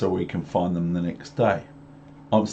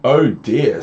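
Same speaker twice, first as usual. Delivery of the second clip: mock dismay; 4 dB louder than usual. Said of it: "said the cat".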